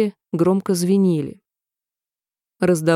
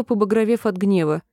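ordinary delivery, nothing marked

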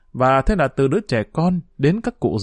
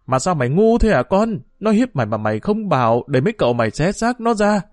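angry lament; 4 semitones higher than usual. Acted. Mother rages and laments.

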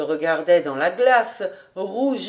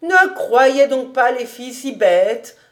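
put-on louder old housekeeper cutting in; interrupting retort; 4 semitones higher, 6 dB louder than usual. Housekeeper interrupting her master to defend girls, louder retort. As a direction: break in firmly on the master. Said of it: "interrompit Kattel".

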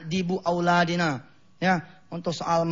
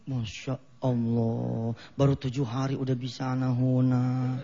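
amazed parent; 8 semitones lower, 4 dB quieter, slower than usual. Retold or imitated.

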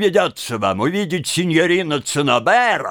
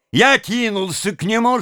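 plain reading voice

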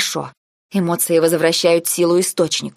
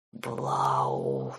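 hissed, much lower and soft; hissed name; 11 dB quieter than usual. A narrator's reading. Furious Nike hisses at her, hissing. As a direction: hiss the name through the teeth. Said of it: "прошипел он".

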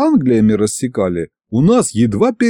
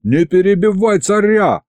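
high, sharp reprimand; a touch of a snarl; snarled rebuke; 9 semitones higher than usual. A narrator's reading. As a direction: snap at the interrupter. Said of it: "рыкнул я".

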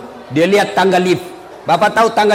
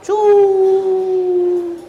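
long, high, steady plane noise; imitated plane whoosh; 10 semitones higher than usual. Village boy watching a plane pass, imitated whoosh. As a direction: draw out a high "cuu" as it flies past.

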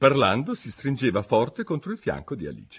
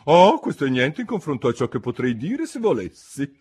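higher, louder, pompous duchess; 6 semitones higher, 5 dB louder than usual. A narrator's reading. Duchess lectures Alice, pompous and higher. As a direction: preach a moral she cannot recall.

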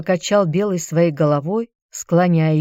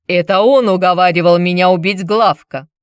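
louder accusing shout; 5 dB louder than usual. Acted. Ursus seizes Chilon and shouts the accusation. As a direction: accuse him with a loud shout. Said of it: "закричал".

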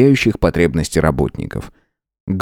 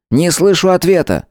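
angry shout; 11 semitones higher than usual. Acted. Ruler demanding her answer, shout.

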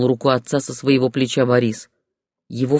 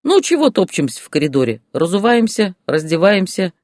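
put-on brisk, slightly louder orders from the old man; commanding father-in-law; 5 semitones higher, 3 dB louder than usual. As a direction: hurry the guests along like a mild commander. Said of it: "скомандовал свёкор". (свёкор командует гостям в коридоре, чуть громче и бойко)

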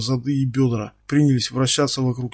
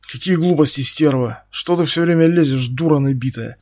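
louder, snarling insults at her; angry shout; 4 dB louder than usual. Acted. Стас набрасывается на подельницу, кричит зло. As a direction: bark the insults across the table. Accomplices quarrel at the table.

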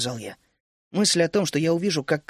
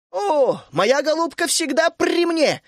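called from afar; 11 semitones higher, 3 dB louder, slower than usual. A narrator's reading. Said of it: "донеслось издали".

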